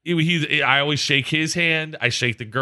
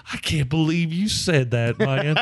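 slow, mock laughing-to-tears voice; imitated crying laughter; 2 semitones higher, slower than usual. Preacher tickled by the swearing, imitated tearful laughter. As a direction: imitate someone undone by laughter, dragging the words. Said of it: "he's just crying, laughing".

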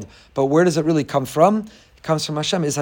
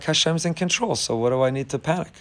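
unworried calm; 5 dB quieter than usual. Acted. Voicing a calm believer amid alarm.

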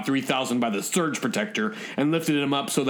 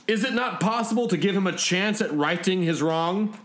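higher, politely pleading robot voice; deferential robot; 6 semitones higher than usual. Acted. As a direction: appeal gently to your master, pitched up.

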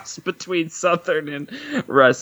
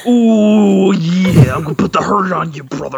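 loud growled promo; wrestler trash talk; 2 semitones lower, 5 dB louder, slower than usual. Acted. Cohost doing wrestler trash talk at her friends. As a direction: threaten like a ring heel.

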